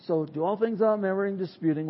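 softly rehearsing a memorized verse to himself; quiet recitation. Shown as a demonstration. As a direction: recite it under your breath at work. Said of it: "And so I would say".

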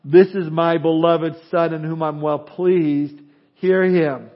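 slow, loud, echoing voice of the Father from the cloud; booming voice of God. Shown as a demonstration. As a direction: boom it out like God speaking with reverb. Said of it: "there had to be some reverb in his voice".

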